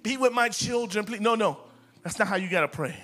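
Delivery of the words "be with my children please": begging prayer. Retold or imitated. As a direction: plead weakly with God. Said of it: "we can't start".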